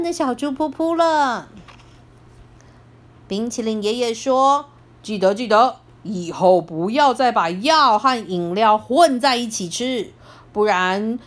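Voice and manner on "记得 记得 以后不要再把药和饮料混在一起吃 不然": put-on lower, gentle old grandpa voice; kind grandpa. Grandpa calming the scared piglet, low soothing tone. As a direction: soothe him like a kindly grandfather.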